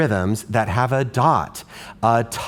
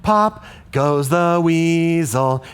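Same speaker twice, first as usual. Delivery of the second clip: other rhythm; 3 semitones higher, slower than usual. Shown as a demonstration. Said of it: "That just sounds like a teet tee".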